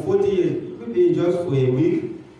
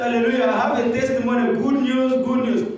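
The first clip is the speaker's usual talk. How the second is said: imitated shout; 5 semitones higher, faster than usual. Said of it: "He was shouting".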